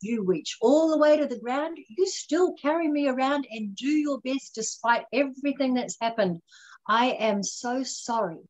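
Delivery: lovingly addressing her own injured leg; heartfelt sorry to a precious leg; tender apology. Retold or imitated. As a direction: apologize to the leg as to a hurt child.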